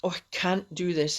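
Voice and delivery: a mild, weary moan of giving up; defeated self-talk. Shown as a demonstration. Morning self-talk with a headache, mildly defeated. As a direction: sigh it out like you're beaten before you start. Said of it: "and I thought".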